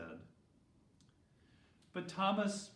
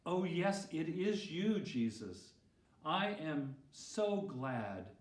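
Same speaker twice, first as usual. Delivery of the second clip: joyful tears. Acted. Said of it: "Thomas began to cry".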